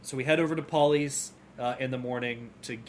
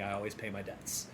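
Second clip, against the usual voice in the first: Sam's line; 3 semitones lower, 9 dB quieter than usual. Retold or imitated. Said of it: "That was a weird thing to say".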